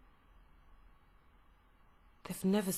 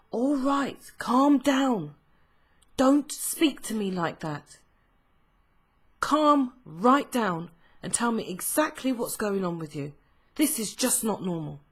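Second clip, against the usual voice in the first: stern mum; 3 semitones higher, 5 dB louder than usual. Retold or imitated. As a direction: play the mum telling her child to calm down. Mum scolding upset child.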